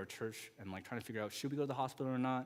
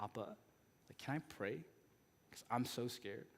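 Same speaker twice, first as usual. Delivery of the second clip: put-on scared child; 8 dB quieter than usual. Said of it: "She's terrified, kinda like her voice is shaking".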